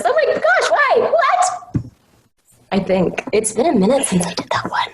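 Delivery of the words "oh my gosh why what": much higher, squeaking in outrage; shrieking anime girl. Pretend. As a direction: let it jump to a shriek. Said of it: "Can you provide us with the voices of your beloved characters?".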